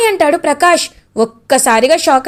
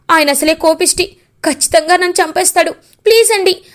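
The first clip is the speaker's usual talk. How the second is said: a touch of frantic begging, pitched up; pleading for mercy; 3 semitones higher than usual. Acted. Ananya begging her mother-in-law at her feet, pitched-up frantic pleading. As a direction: beg her mother-in-law not to tell.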